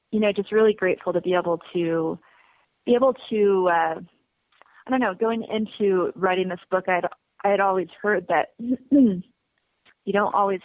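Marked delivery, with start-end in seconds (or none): 0.1-5.1 choking up while talking; choking a little. Real, not acted. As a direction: voice catching in the throat. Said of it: "sorry, I'm choking a little bit here".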